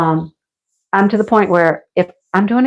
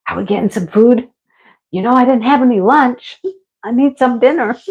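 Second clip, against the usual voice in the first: mock hungry plea; 4 semitones higher than usual. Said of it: "be like".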